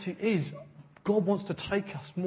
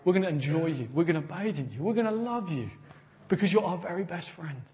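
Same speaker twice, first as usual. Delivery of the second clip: tender prayer; 3 dB quieter than usual. Pretend. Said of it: "We want to say".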